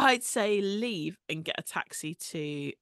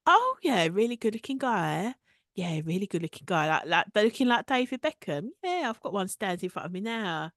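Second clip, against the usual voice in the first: excited. Retold or imitated. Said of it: "and Amy goes".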